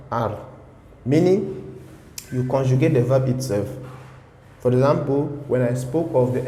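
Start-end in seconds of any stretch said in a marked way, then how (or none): 0.1-0.4 French R said alone, from the throat; R sound. Shown as a demonstration. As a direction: sound out the R on its own. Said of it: "you always have that R sound".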